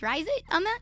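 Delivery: playful Puerto Rican lilt, pitched high; Puerto Rican twist. Shown as a demonstration. Streamer defends her take on a viewer's name, Puerto Rican twist. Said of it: "Puerto Rican twist".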